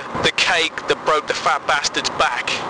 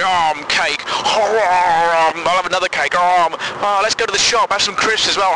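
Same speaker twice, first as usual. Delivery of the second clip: greedy binge voice; 3 semitones higher than usual. Retold or imitated. Mocking dieters bingeing.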